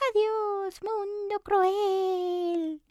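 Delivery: high, slow and tearful goodbye; high cookie voice, tearful farewell; resigned frightened cookie. Acted. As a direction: give up to the crow, close to tears. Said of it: "muy asustada".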